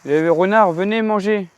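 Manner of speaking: high sing-song call; calling kids to dinner. Acted. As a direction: call them in to eat. Calling foxes to come eat. (appel pour venir manger)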